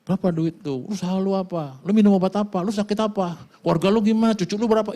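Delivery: put-on high, nosy old man's questions; imitating old men. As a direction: mimic the old men gossiping. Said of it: "Ngomongnya cuma tiga". (menirukan bapak-bapak tua yang cerewet)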